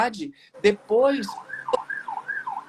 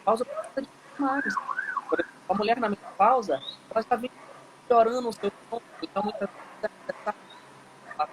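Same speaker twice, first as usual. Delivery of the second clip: sound cutting out; 4 semitones higher, 5 dB quieter than usual. Real, not acted. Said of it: "tá cortando muito a, o som".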